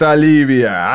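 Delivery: drawn, ringing cry of a name; proclaimed name. A narrator's reading. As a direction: call OLIVIA out in revelation. Burning man cries out the name.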